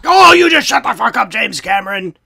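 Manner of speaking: mock angry shout. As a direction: yell it at him playfully. Mock insult in banter.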